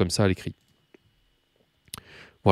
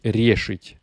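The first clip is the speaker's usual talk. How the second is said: решить drawn out slowly to show its stress; stress demonstration. Shown as a demonstration. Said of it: "je crois que l'accent tonique".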